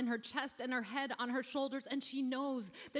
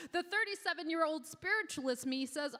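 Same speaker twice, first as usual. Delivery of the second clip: usual speaking voice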